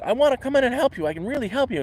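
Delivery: high-pitched imitation of an insistent Spanish-accented stranger; mock Spanish accent. Stranger insists on entering camper's tent, imitated Spanish accent. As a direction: mimic pleading to be let in, Spanish accent. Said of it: "he did, like, a Spanish accent".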